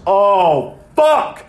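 imitating a coworker's panicked outburst; mock panic. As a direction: blurt it like you just realised you're dead. Coworker realises he's in trouble.

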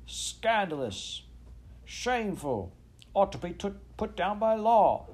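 a scandalised mob yelling all at once; indignant brokers shouting at the Queen; shouting crowd. A narrator's reading. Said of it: "two or three voices shouted at once".

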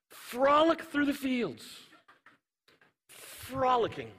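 a playful sing-song frolic demo; mock frolic. Shown as a demonstration. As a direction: play a carefree grasshopper for laughs. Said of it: "That's my best frolic".

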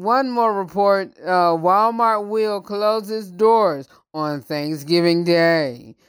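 bright newscaster read; news reporter voice. Shown as a demonstration. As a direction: read it like a TV anchor. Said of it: "it's just a news reporter voice".

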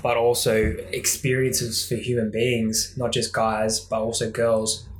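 talking between sips of coffee; while sipping a drink. Real, not acted. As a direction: speak with coffee in your mouth. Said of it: "I'm just drinking a coffee at the moment".

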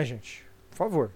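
usual speaking voice

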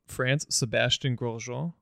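slow, hammed-up French accent on "Sebastian Grosjean"; playful French accent reading out the French captain's name; mock French accent. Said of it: "How do you like my French accent?".

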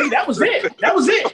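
high, loud emphatic shout. Real, not acted. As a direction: belt out the punchline. Emphatic punchline about ruined career.

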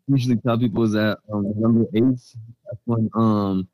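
muffled phone line; underwater. Real, not acted. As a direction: sounds like talking underwater. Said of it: "This man's underwater".

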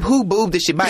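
giggling through the question; laughing, high and incredulous. Real, not acted. Laughing at absurd story.

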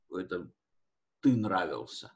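ordinary delivery

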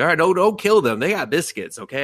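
put-on high, dim little-girl voice; childish demon girl. Demon queen announces her goal, high and childish. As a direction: play it like a ditzy kid. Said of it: "She's like".

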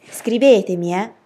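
loud parting shout; calling from afar. A narrator's reading. Dill shouting goodbye to his friends, calling from afar. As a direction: call it out to friends down the road. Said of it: "ci strillò da lontano".

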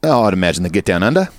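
quick Aussie aside; playful bogan Australian; mock Australian accent. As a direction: toss it off in put-on Australian. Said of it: "my Australian accent".

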